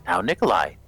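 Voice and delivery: mild chiding with a falling tune; understated motherly reproof; light scolding. Acted. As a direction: gently tell him off as his mother. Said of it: "lightly scolds Nikolai".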